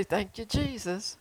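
soft, slow grateful thanks; smiling thanks. Shown as a demonstration. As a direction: smile and thank Jesus gently, slowly. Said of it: "All you have to do is just smile and say".

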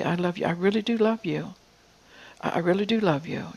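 insistent, repeated declaration of love; convincing reassurance. Retold or imitated. God reassuring someone hurt and abused, convincing. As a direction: press it gently, as if to persuade. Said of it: "he has to convince them".

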